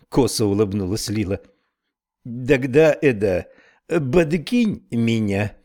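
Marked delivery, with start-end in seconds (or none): 2.2-5.6 slow Irish brogue; lightly voiced Irish snail; Irish accent. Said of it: "с сильным ирландским акцентом".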